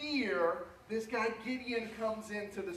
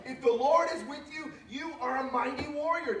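louder and higher, preaching it out; bold proclamation; 6 semitones higher, 3 dB louder than usual. Real, not acted. Pastor declaring the promise to the congregation, loud and bold. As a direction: declare it over the church with force.

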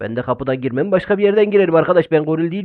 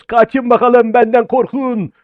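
slow, menacing villain growl; monstrous gorilla taunting his prey, very slow; 7 semitones higher, 6 dB louder, much slower than usual. Acted. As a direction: drag it out to scare the kids. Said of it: "kötü adam, kötü karakter, goril".

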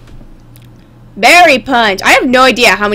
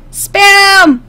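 high, drawn-out cartoon call; called-out exclamation; 6 semitones higher, 4 dB louder than usual. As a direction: sing out SPAM high and long. Repeats the word as a call.

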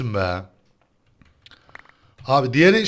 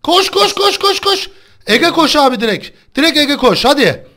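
much higher and louder frantic cheering; excited cheering; 10 semitones higher, 6 dB louder than usual. Real, not acted. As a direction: scream encouragement at a teammate. Cheering teammate on.

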